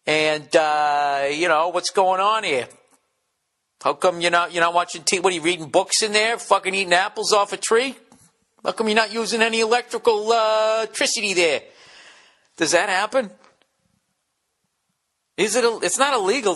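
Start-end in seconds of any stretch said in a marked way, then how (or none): 0.1-11.6 higher, prying busybody neighbor voice; mock suspicious neighbor grilling you; nosy neighbor. Neighbor confronting off-grid guy.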